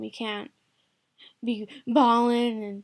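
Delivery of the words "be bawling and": drawn-out loud fake wail; mock bawling. Shown as a demonstration. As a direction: break into exaggerated bawling. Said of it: "you have to be calm".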